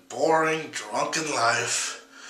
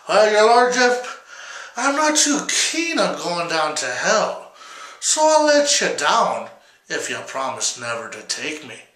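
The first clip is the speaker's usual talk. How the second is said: a lightly voiced sly Jack, higher at the start; 4 semitones higher than usual. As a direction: bargain cheekily with the devil. Jack voiced in told story.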